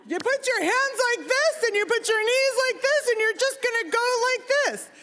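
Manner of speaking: high-pitched insistent dad, no real volume; strained high voice, spelling out each step. Retold or imitated. Dad repeating diving steps to a child who failed, insistent. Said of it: "maybe I didn't say it loud enough".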